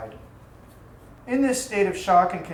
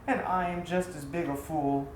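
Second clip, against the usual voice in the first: bitter scorn; 3 semitones lower, 5 dB quieter than usual. A narrator's reading. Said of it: "he had to laugh at himself in bitter scorn".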